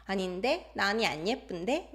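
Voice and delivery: mild imitation of a sassy toddler. Toddler telling someone she isn't pretty, sassy. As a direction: tease back with a questioning lift. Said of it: "Sassy little thing".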